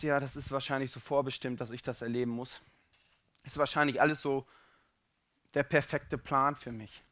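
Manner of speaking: subdued, given-up tone; resigned acceptance. Acted. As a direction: accept your lot without any fight. Voices a resigned believer's inner reply.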